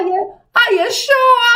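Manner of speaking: high, loud, laughing through the words; laughing taunt. Retold or imitated. Laughing as she retells daring the Sagittarius girl. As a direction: cackle while you ask it.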